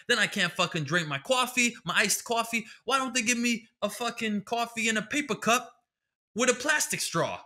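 a hint of the old guy griping about cups; old man ranting. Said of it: "He was like".

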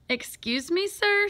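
rising, high-pitched interruption; anxious interjection. A narrator's reading. Boy interrupting the coach at the start, anxious interjection. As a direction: try to get the coach's attention.

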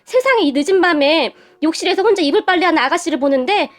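plaintive, pleading justification; mildly tearful. Acted. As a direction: explain yourself, a touch choked up. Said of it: "제가 눈물을 흘리며 말을 했고". (살짝 울먹이며 호소하듯)

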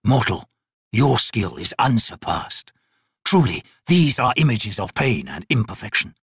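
lightly voiced ancient god, slow and measured; a crippled god. Crippled god judging the painter's work, slow and cold. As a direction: speak down to the mortal like a bored deity. God speaks to mortal artist.

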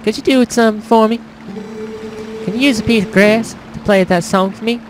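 lightly voiced country girl, pitched a little up; a hint of a farm girl; farmer's daughter. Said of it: "make her that farmer's daughter kinda girl".

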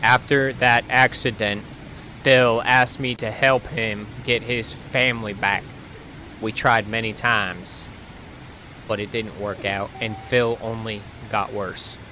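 put-on slow read in a southern accent; unhurried southern-accented narration. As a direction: read it aloud slowly with a southern twang. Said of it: "southern accent for that".

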